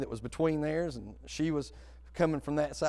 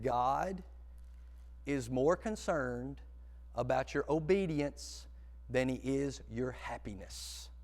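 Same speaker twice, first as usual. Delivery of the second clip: slow and deliberate; slower than usual. Shown as a demonstration. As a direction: let them write every word down. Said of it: "you might wanna write this one down".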